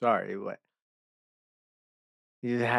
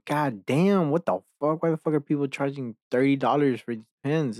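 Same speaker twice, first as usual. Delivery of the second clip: outraged; 5 semitones higher, 4 dB louder than usual. Real, not acted. Outraged at pen prices.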